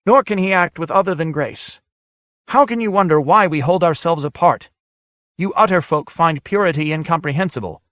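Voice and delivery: put-on high, otherworldly old sage; ancient sage voice. A narrator's reading. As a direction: speak as an ancient hermit whose words ring in the mind. Demi voiced throughout.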